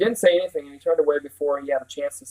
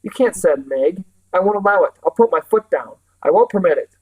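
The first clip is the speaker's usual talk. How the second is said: defiant refusal; 4 semitones higher, 4 dB louder than usual. Acted. Calvin refusing to let Meg go.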